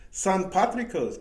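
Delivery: slow Irish-Mexican accent. Shown as a demonstration. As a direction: Saint Patrick's drawn out in an Irish-Mexican accent. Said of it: "In Irish and Mex".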